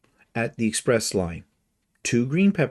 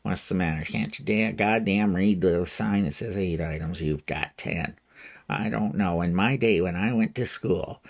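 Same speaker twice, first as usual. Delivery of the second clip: put-on cranky old man mumble. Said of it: "I could sit there and mumble".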